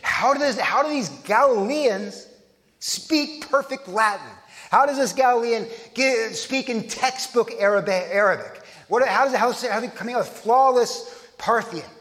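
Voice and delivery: astonished crowd asking in disbelief; acted incredulous questioning; bewildered, amazed. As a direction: marvel at it, pitch lifted on each question. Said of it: "It's bewildering. It's amazing. It's astonishing".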